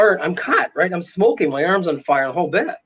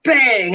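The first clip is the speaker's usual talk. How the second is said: punchy, higher-pitched spoken bang; imitated door slam; 4 semitones higher than usual. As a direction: voice the heavy door slamming. Imitating oak door slamming shut.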